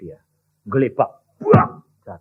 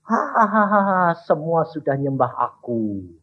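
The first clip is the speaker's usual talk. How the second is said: mocking demon laugh; 5 dB quieter, slower than usual. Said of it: "Dia ketawa ngakak-ngakak".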